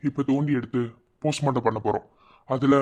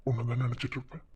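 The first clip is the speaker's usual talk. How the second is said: low, gently paused reassurance; tender comfort; 4 semitones lower, 5 dB quieter than usual. Acted. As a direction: soothe them softly at parting. Parting comfort to crying partner. (மென்மையாக ஆறுதல் சொல்லும் குரல்)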